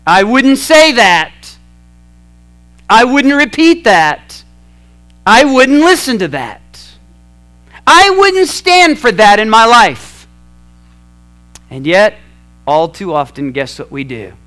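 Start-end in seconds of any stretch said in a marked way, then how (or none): 0.1-10.3 cautioning inner voice. Retold or imitated. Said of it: "it says things like".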